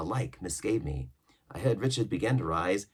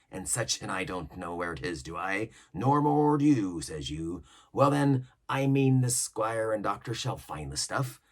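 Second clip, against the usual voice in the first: lively seaman's voice, swinging up and down; pirate cook; 3 dB louder than usual. Acted. Cook scheming with mutineers, lively pirate voice. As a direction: lay out the plot like an old pirate.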